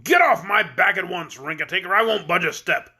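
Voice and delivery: gruff goat yelling at his rider; shouting goat. Acted.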